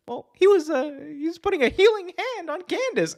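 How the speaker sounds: very high, innocent explaining voice; Jerry Lawler impression. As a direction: play it coy and squeaky. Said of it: "Jerry Lawler just says".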